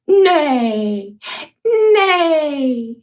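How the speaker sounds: put-on whinny it for the child; horse neigh. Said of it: "Horse go".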